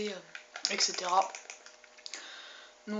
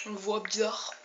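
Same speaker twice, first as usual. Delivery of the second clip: mouth full; slower than usual. Real, not acted. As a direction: voice odd from caramel in mouth. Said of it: "Voix bizarre, à cause du carambar".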